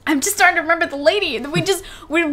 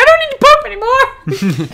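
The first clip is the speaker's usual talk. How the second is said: higher, louder, laughing through it; laughing imitation; 10 semitones higher, 6 dB louder than usual. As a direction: crack up while quoting him. Retelling cousin after scare, laughing.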